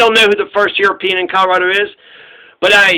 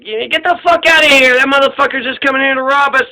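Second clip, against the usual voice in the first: higher-pitched, hammed-up dismissive chief; mock angry retort; 5 semitones higher than usual. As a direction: play Pacheco brushing off the Spanish demand with mock anger. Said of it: "Pacheco was like".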